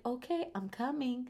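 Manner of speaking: soft motherly reassurance; gentle mom voice. Retold or imitated. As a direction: soothe her like a mother. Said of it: "I go very gently".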